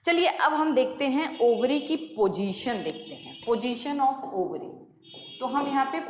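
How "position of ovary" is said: each word drawn out slowly for note-taking; slow dictation. Shown as a demonstration. Teacher to students copying notes, slow dictation. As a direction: spell it out slowly so students can write.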